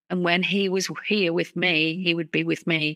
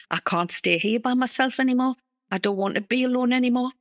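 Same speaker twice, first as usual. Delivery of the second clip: higher, pleading, recalling her own despair; retold upset plea; 6 semitones higher, faster than usual. Woman alone in Spain deciding to call him, higher and pleading. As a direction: replay the moment she couldn't bear being alone. Retold desperate thought to herself.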